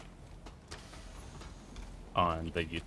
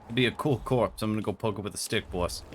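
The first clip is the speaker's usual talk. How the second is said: goon voice. Pretend. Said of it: "That's my goon voice".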